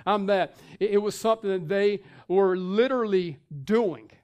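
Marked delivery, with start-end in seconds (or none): 0.1-0.6 a hint of a bragging churchgoer; mock bragging. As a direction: show off like a proud believer. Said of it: "just bragging about themselves".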